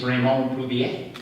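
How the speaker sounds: Plouvier said the French way, lightly and laughing; a mock-fancy French accent on the name. Shown as a demonstration. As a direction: give Raymond Plouvier a playful French accent. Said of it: "if you say it with a French accent".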